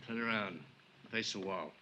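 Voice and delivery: hushed and cold, gun in hand; quiet menace. Acted. Gunman ordering Johnny to face the wall, in a soft menacing voice.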